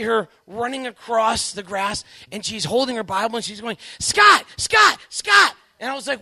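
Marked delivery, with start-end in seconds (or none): 4.0-5.6 high, loud excited calls of his name; calling out excitedly. Retold or imitated. Wife running across the grass calling to her husband, loud excited shouting.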